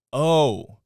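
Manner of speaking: sudden loud angry snap; snapped. Retold or imitated. Bar worker snapping at the drunk owner, loud and angry. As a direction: let the anger burst out at him. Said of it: "I snapped".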